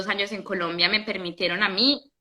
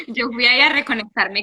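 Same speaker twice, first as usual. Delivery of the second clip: riendo. Real, not acted. Risa al corregir el malentendido.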